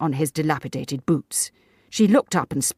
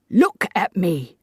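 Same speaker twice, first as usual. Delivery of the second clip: slow, louder stern order; stern command; 4 semitones higher, 5 dB louder, slower than usual. A narrator's reading. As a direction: Davis commands his wife sternly, slow and loud. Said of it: "commanded Mister Davis sternly".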